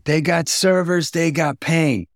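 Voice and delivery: high Texas drawl, slowed; Texas accent. Retold or imitated. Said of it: "Well, I'm from Texas".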